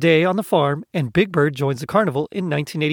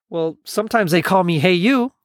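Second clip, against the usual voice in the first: mildly emphatic, "Hey You" rising at the end; 2 semitones higher than usual. A narrator's reading. Gonzo telling the kids his other name, emphatic. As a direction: put a little extra weight on "Hey You". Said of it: "Gonzo said emphatically".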